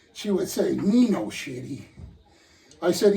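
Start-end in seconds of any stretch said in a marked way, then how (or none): 0.7-1.8 a hint of cute, childlike protest; imitated cute little voice. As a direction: lightly imitate a wife's cute baby talk. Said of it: "with her cute little voice".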